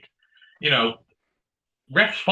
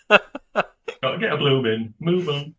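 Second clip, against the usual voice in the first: laughing Cockney line; 2 semitones higher, slower than usual. Retold or imitated. Repeated Italian Job quote, laughing.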